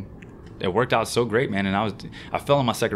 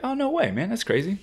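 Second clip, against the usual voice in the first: excited disbelief; 13 semitones higher than usual. Retold or imitated. Retelling excited reaction to friend.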